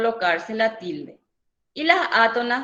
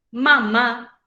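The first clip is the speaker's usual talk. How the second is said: "Mamá" split out with weight on the final "má", louder; stress on last syllable; 5 dB louder than usual. Shown as a demonstration. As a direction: say "Mamá" as ma-MÁ, loading the second syllable. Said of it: "lleva acento en la última sílaba".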